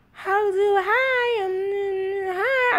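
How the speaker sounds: put-on high, whiny baby babble; imitating babbling baby. Mom imitating baby son babbling at night, high whiny voice. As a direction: mimic a sleepless baby chattering in bed. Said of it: "bed talking about".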